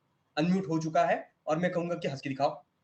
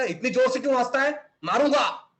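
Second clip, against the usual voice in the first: scolding parent; 5 semitones higher, 4 dB louder than usual. Retold or imitated. Acts out scolding parent at home.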